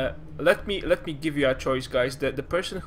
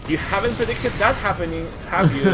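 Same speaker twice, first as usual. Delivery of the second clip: excited; 5 semitones higher, 7 dB louder than usual. Real, not acted. Caster hypes surprise attack.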